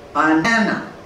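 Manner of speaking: Banana with a long, strong middle syllable; correct word stress. Shown as a demonstration. Teacher shows how Banana sounds, stress on middle syllable. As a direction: lean on the middle of Banana, weak first and last. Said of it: "So word stress is everything".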